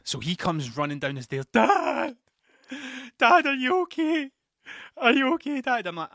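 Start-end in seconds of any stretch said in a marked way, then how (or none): 1.5-5.9 put-on high, loud anxious kid shouting for dad; worried child calling out. Son rushing downstairs, calling out to his collapsed dad in alarm. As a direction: call out to your dad in a panic.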